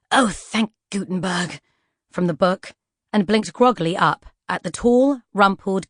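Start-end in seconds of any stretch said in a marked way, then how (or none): 0.1-1.6 snarky cry. Acted. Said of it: "a snarky cry of".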